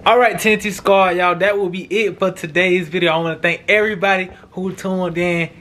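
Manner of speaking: upbeat host sign-off to viewers; vlog outro. Acted. Vlogger signing off to his subscribers, upbeat. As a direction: wrap up the video for fans.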